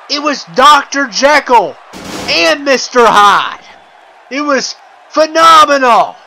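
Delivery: oversell how crazy the match was; hyped recap. Real, not acted.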